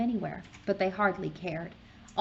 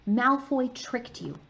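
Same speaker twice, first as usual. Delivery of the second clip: Hermione; 5 semitones higher, 4 dB louder than usual. Acted. Hermione scolding Harry.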